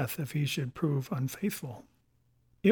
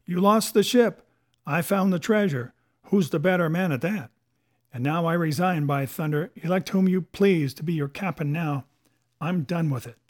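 indignant boast; 4 dB louder than usual. Acted. Silver resigns as captain before the mutineers, indignant. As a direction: throw their failure back at them.

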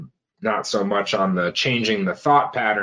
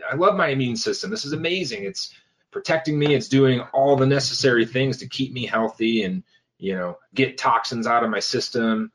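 mock grateful self-talk; 4 semitones higher than usual.

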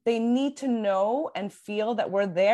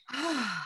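relieved sigh; 4 semitones higher, 6 dB quieter than usual. Retold or imitated. Relief after crying.

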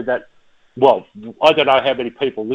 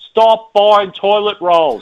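slow, higher, punched words; emphatic, slow; 6 semitones higher, 4 dB louder, slower than usual. Real, not acted. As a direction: lay it down slowly, exasperated. Jokey advice during panic buying.

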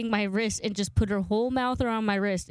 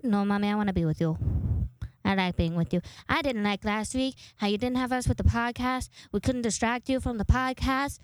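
lightly voiced talking dog; a hint of a pleading pet; Tutu. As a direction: voice a dog begging its owner to stay close. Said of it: "doing Tutu's voice".

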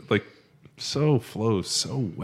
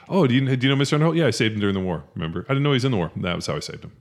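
quoting Fletch; 4 semitones higher, 4 dB louder, faster than usual. Retold or imitated. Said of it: "He goes, uh".

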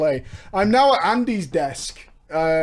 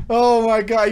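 normal talking voice

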